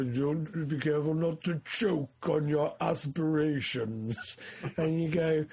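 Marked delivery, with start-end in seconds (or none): 0.0-4.4 measured, weighty villain delivering a pun; slightly put-on villain voice; Darth Vader. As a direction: lightly imitate a menacing film villain. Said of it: "he has, like, a little pun".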